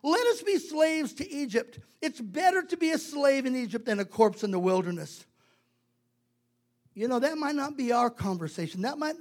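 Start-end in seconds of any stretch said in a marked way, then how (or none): 0.0-5.2 loud, higher-pitched complaint; acted indignant scolding, question after question; hammed-up protest of a fed-up crowd; telling God off. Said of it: "they're really telling God off".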